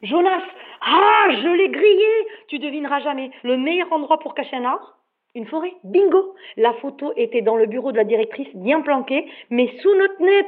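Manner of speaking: triumphant, all fired up; wound up. Acted. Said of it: "je suis remontée comme un coucou".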